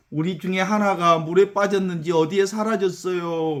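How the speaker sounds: lightly acted tearful complaint; mock tearful wail. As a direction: whine it out like a child pretending to cry. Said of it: "막 애들이 울어".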